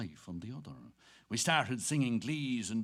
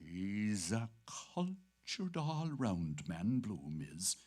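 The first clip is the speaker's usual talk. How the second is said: serious; 5 semitones lower, 3 dB quieter, slower than usual. Acted. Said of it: "he said seriously".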